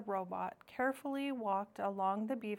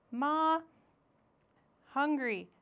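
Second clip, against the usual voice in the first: put-on high, louder baby gosling cry for its mother; a little bird begging to be fed; high peeping chick voice; hungry gosling; 6 semitones higher, 5 dB louder than usual.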